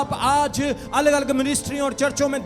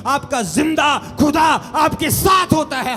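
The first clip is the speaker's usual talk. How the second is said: preacher's shout; 4 dB louder than usual. Real, not acted. Preacher's climax to congregation.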